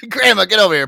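high, loud summons; mock calling out. Grandchild calling grandma over, mock holler.

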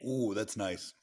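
breathy whispered admiration; whispered ooh. Real, not acted. Whispering to friends over a beer, hushed delight. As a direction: hush it like a secret delight.

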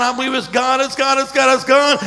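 rising excited insistence; climbing with wonder. Retold or imitated. Pastor's amazed exclamation retold.

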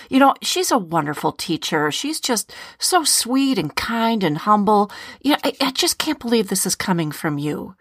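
mildly acted offended friend; huffy refusal. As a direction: play a touch huffy and disbelieving. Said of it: "if she's huffy".

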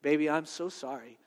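lightly voiced mom saying sorry to her child; quiet, subdued regret; retold apologetic mom. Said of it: "she came back and she goes".

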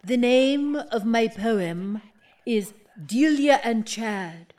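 slow, hushed, portentous title reading; slow dramatic poetry-reading voice; grand poem announcement. Acted. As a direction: savour each word as if unveiling art. Poet announces her poem title.

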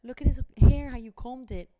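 put-on a touch of amazed fuss over a baby's hair; amazed coworker. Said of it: "Anna came in here saying".

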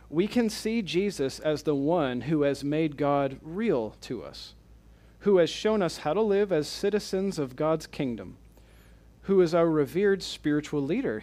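deliberate, phrase-by-phrase quote reading; slow reading. Real, not acted. Lecturer reading a second quote aloud to the class, slowly. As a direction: read it out slowly, pausing between clauses. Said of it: "I'm gonna read these slowly".

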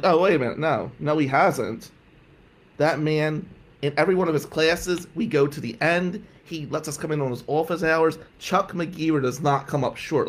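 retold indignant protest; heated pushback, building to a loud burst; passionate defense. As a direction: argue hotly for your mentor. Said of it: "You're really passionate".

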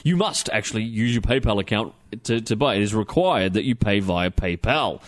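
lightly hammed-up TV salesman pitch; salesman impersonation. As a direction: sell it like a cheesy TV ad. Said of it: "I'm gonna do my best salesman impersonation".

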